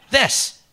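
"This" alone, set high and distinct; demonstrating THIS. Acted. Boss telling employee to try it, high demonstrative "This". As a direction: model "This" high for someone to copy. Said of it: "A child could do it. Try it".

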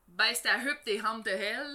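Beauce accent, CH turned into a breathy H. Shown as a demonstration. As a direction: say "huppe" and "hantes" with H sounds, Beauce-style. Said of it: "les C H, tu sais, à la place de faire un ch". (accent beauceron, les « ch » aspirés en « h »)

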